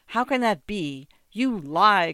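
high, loud accusation; indignant peasant outcry; crying out. A narrator's reading. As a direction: burst out in disbelief, then accuse. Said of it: "cried out the moujik".

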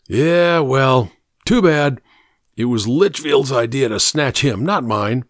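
a hint of a sullen cornered kidnapper; lightly voiced crook shifting the blame; lightly voiced sick fugitive, defensive.

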